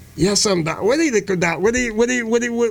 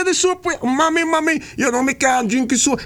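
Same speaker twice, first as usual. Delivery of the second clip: put-on boy's voice; 5 semitones higher than usual. Boy voice.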